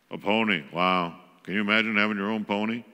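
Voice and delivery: a mildly warm, playful mom response; calm mom. Retold or imitated. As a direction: answer the kid with calm interest. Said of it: "you can learn to respond".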